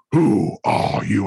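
slow, eerie demon-possessed voice; possessed woman. Retold or imitated. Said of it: "looks up and goes".

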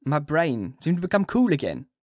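a broken patient rushing his confession; dying Renfield. A narrator's reading.

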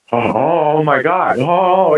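imitated stunned reaction. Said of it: "He was stunned".

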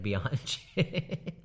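a singer's name said with a "-che" ending; Gujarati-style pronunciation of a singer's name. Retold or imitated. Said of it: "Gujarati person".

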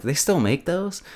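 high, incredulous question; mock disbelief. Viewer seeing an old person's newspaper, incredulous. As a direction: ask it as if baffled they exist.

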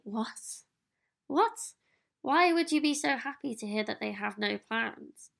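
mock disbelief; incredulous what. To the viewer, imitating people puzzled by no plans, incredulous. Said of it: "some people might say".

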